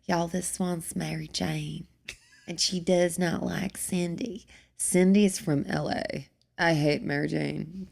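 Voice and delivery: lightly voiced catty character, partly whispered; character voices. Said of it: "I have little characters that I play".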